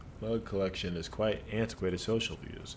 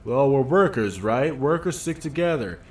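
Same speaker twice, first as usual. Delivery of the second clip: a dockworker puffed up and defensive; gruff union worker; 6 semitones higher, 8 dB louder than usual. Acted. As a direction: bark it out like a worker standing his ground. Voices worker character.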